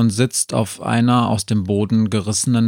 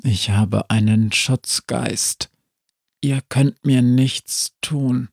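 zombie; slower than usual. Acted. Zombie figure continues.

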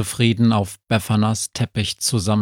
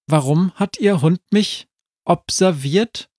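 higher-pitched, puzzled question; lightly voiced higher character, asking; questioning girl character; 8 semitones higher than usual. A narrator's reading. Befana asks the dwarf why his dog watched her, questioning.

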